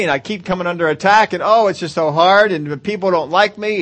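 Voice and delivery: a lightly whiny, complaining prayer; a touch of mock whining; mock whiny complaint. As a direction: play the self-pitying complainer, half-hearted. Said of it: "have we sat there and said".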